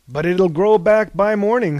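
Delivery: loud jovial boast; hearty. A narrator's reading. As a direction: announce it heartily. Prometheus jokes about liver.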